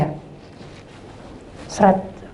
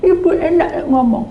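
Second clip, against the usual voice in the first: whimpering retort; 6 semitones higher than usual. Retold or imitated. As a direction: whine it through tears. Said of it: "Sama mewek-mewek". (keluhan merengek setengah menangis)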